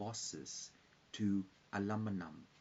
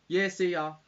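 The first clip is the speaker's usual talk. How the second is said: calling out; 9 semitones higher, 11 dB louder than usual. Real, not acted. Calling goodbye to someone leaving.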